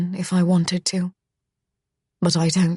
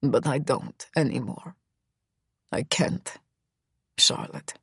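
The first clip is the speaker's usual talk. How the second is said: lowered, fading hiss; 4 semitones lower, 6 dB quieter than usual. A narrator's reading. Misha giving in to Charlotte, a low fading hiss. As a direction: let the fight drain out in a hiss. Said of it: "he hisses".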